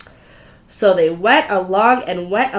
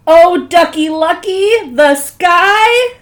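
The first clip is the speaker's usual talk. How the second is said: panicked wail; 6 semitones higher, 9 dB louder, much slower than usual. Acted. Chicken Little panics.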